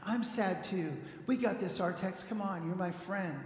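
softly coaxing a friend; acted gentle, slightly soft comforting; gentle reassurance. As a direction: soothe a struggling friend. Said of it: "at first he's very gentle about it".

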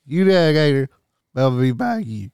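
put-on Cajun accent. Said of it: "Give us, give us your best Cajun".

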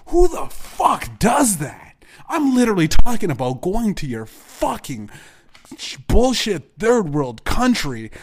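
high, loud yelling; furious shout. Real, not acted. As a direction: hurl it at him in rage. Screaming insults at dad.

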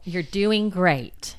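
slow, encouraging praise. Shown as a demonstration. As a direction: cheer them on gently.

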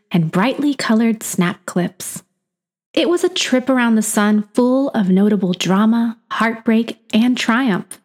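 tongue-in-cheek saga voice; epic fantasy narrator. A narrator's reading. Mock-epic opening of memoir.

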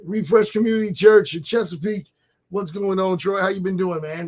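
lightly put-on radio host voice. Real, not acted. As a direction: slip into on-air host mode. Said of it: "Did you hear my radio voice kick in?".

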